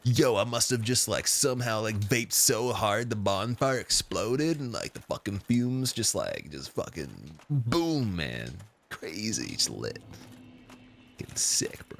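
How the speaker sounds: slow, spaced-out stoner drawl; a baked bro marvelling at the fumes; drawn-out stoner bro rambling. Retold or imitated. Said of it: "some people that actually sound like that".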